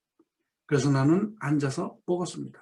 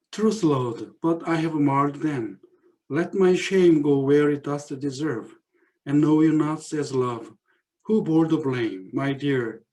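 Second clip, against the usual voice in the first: slow, deliberate verse recital; poem reading; much slower than usual. Acted. Teacher reading the poem's ending to students, slow recital. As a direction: savour each line of the poem.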